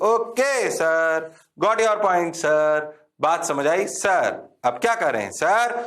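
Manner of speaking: slow, drawn-out dutiful student; mock student reply. Teacher playing students answering him, slow and dutiful. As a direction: lightly mimic a bored student saying okay.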